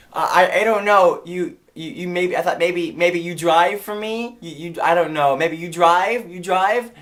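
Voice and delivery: put-on halting Chinese-accented plea; imitated Chinese owner. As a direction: stammer the request in a Chinese accent. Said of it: "And she said".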